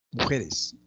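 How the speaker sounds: "Mujeres" with the stress on JE; teacher clearly stressing the middle of "Mujeres"; stress on middle syllable. Shown as a demonstration. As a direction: say "Mujeres", leaning on its second syllable. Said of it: "La sílaba tónica, G".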